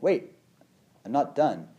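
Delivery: high, loud startled protest; mock protest. Shopper caught at closing time, protesting in mock alarm. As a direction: call out wait before they close.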